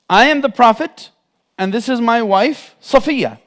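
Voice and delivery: calling out. Retold or imitated. Prophet calls out to passers-by.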